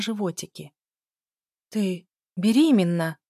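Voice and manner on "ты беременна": медленно, потрясённо выдыхая; с ужасом понимает правду о сестре; выдох с ужасом. A narrator's reading. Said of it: "выдохнула с ужасом". (потрясённый выдох ужаса)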